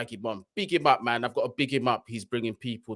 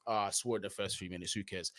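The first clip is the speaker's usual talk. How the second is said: normal talking voice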